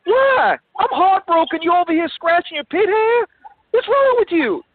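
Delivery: exasperated scolding. Acted. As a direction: berate your friend for scratching mid-mourning.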